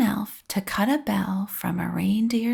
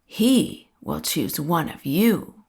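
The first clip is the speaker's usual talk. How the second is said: lower, lightly voiced conductor's answer; a touch lower and grave, conductor to the children; hint of a solemn conductor; 4 semitones lower than usual. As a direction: give a lightly weighty conductor reply. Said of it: "The conductor answered".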